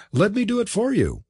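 very high, eager offer; crying out. A narrator's reading. Blair offering to help Mister Kent, crying out. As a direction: jump in at a high pitch. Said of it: "cried Blair".

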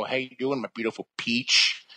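hammed-up lounge-lizard greeting; Chris Farley. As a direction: croon it like a goofy flirt. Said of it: "this Chris Farley stuff".

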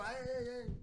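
thin mock cries of ay ay ay; soft imitated sleep-yelling; imitated nightmare cries. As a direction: echo the yells she hears at night, lightly. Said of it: "dice ella que grito".

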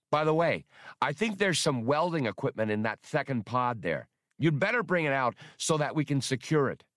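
a faintly squeaky feigned nonchalance; Spray's sly voice. Acted. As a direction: sound casual while setting a trap. Spray slyly tricks the droid.

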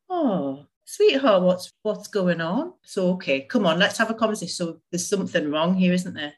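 a touch of gentle, caring self-talk; gentle with herself. Retold or imitated. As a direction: soothe yourself like a kind friend. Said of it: "I'm quite gentle with myself now".

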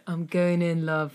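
lightly done polite service voice; customer service voice. Acted. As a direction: say it like a phone support agent. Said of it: "I heard it in customer service voice".

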